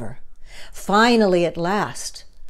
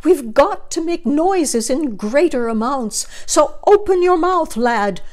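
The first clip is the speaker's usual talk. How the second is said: mayor urging; 4 semitones higher than usual. Acted. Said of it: "he said".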